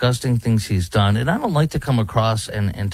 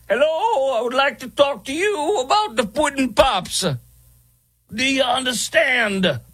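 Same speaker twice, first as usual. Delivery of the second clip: much higher, hammed-up celebrity pitchman voice; Bill Cosby impression; 14 semitones higher than usual. Host mocks a celebrity pudding ad, high hammy impression. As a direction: do a deliberately bad, high Cosby sell. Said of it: "This is my horrible impersonation".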